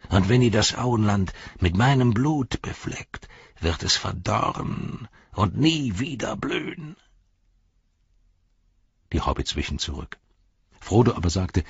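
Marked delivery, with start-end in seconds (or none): 0.1-6.9 ominous curse. Acted. Saruman curses the Shire.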